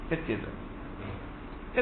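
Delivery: کچے توے drawn out in a very slow whisper. Acted. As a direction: let the regret sink in, breathed out. Repeats the proverb's key phrase.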